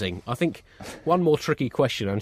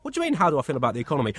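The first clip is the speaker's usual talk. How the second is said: exasperated; 3 semitones higher, much faster than usual. Retold or imitated. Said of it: "You're probably gonna hear them say".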